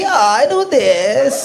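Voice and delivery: put-on slow, drawn-out posh foreign accent on each word; mock foreign accent; reel accent. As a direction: stretch it out like the viral reel. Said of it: "आपने वो Insta पे reel देखी".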